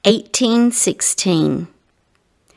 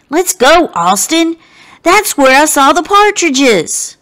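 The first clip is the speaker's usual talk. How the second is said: eager; 7 semitones higher, 4 dB louder than usual. Acted. Abe urging friend.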